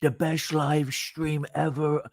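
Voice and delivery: hint of a boastful Trump on a livestream; bad Trump impression. Caller on the livestream hamming up a weak Trump. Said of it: "This is my worst Trump impression".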